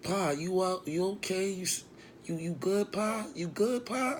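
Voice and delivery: high, light imitated woman's voice; concerned woman impression. Acting Angie checking on him.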